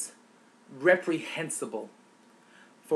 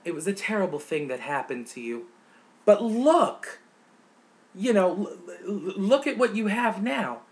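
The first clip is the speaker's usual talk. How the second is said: mock Santorum quote; 3 semitones higher than usual. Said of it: "to attempt to encapsulate it into this".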